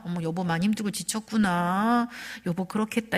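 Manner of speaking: a touch of tender sympathy; lightly acted empathy. Wife empathizing with her worn-out husband, mildly tender. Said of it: "이렇게 공감해 주셔야 되는데".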